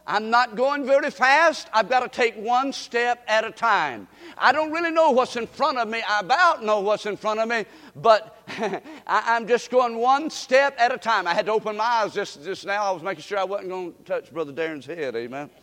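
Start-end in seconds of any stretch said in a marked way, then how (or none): 0.1-11.3 acting blind. Shown as a demonstration. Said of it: "Watch me now".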